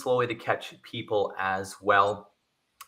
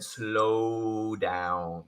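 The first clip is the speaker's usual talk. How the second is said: calm advice; 3 semitones lower, 4 dB quieter than usual. Shown as a demonstration. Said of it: "if you have a strong accent".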